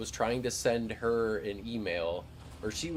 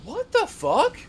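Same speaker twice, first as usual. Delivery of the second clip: mock shocked yell; 12 dB louder, slower than usual. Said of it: "I'm just like".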